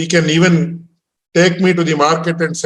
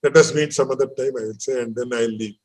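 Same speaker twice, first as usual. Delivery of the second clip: diplomatic excuse. Retold or imitated. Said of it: "if I am very, uh, diplomatic".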